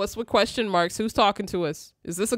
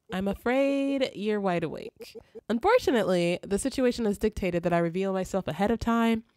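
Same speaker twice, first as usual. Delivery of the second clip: lightly voiced formal spirit, reassuring; composed spirit guide. Spirit assuring the sleeper it is no ghost, lightly acted composure. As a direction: read it as a courteous otherworldly guide.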